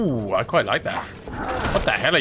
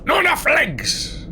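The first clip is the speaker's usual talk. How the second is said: high, slow cartoon squeak; a hint of a squeaky character; squeaky silly voice; 11 semitones higher, slower than usual. Joking voice about mimic.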